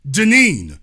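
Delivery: host calling a chat viewer to the phone, loud; calling out a name. Real, not acted. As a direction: call her name across the room.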